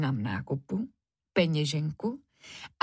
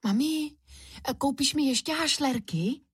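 put-on higher, pleading child's voice; little Kuba begging mum for sweets; pleading little boy; 7 semitones higher than usual. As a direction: beg sweetly like a small boy. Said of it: "prosil Kuba".

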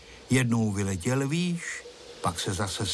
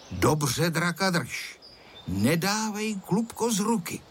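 stern instruction; 6 semitones higher than usual. A narrator's reading. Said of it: "řekl mu přísně".

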